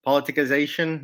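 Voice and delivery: politicization slipping into a Texas accent. Real, not acted. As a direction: let Texas creep into "politicization", opening on a stronger first syllable. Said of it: "There's my Texas accent coming out on you".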